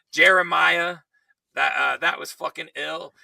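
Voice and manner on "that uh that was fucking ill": hoarse, worn-out voice; strained hoarse voice; losing voice. Real, not acted. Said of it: "I'm losing my voice".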